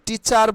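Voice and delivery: loud, drawn-out টিচার with a full final R; hard T, sounded R. Shown as a demonstration. Teacher showing the wrong way, hard T and long R. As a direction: say টিচার with unpuffed ট and heavy R. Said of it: "টিচার বলবো না".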